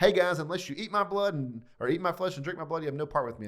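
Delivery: lightly voiced Jesus declaring to the crowd; voicing Jesus. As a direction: proclaim it loud like Jesus to the crowd. Jesus voiced in retold scene.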